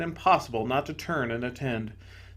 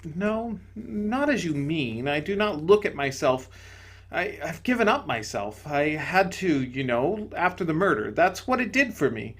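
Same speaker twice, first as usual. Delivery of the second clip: higher, gentle spirit voice; serene bright spirit; 4 semitones higher than usual. Acted. Bright spirit to the ghost, higher and gentle. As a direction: soothe him from above.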